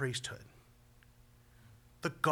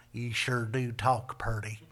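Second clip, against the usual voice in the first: mock folksy teasing; 3 semitones lower than usual. Friend ribbing a wordy preacher, mock folksy teasing. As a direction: tease with mock-folksy admiration. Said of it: "just to make fun of me".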